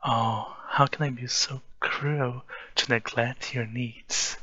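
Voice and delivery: mock pity. Teasing mock pity to lover.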